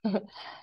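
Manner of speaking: brief amused chuckle; a quick little laugh to oneself; short chuckle. Real, not acted. Teacher amused by a student's picture, short chuckle.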